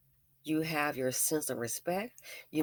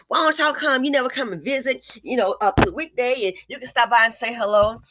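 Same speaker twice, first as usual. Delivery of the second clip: quoting the invitation; 7 semitones higher, 9 dB louder than usual. Retold or imitated. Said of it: "asking them, you know".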